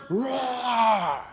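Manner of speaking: soft roar. Retold or imitated. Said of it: "And he's roaring".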